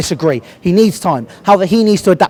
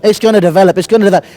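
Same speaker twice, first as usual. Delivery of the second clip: mocking fans; 6 semitones lower than usual. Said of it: "a lot of people are going".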